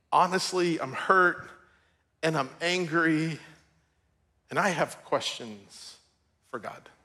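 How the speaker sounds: words trailing away in grief; hesitant, hurt voice fading on for God; broken father. Retold or imitated. Grieving father quoted, fading into silence.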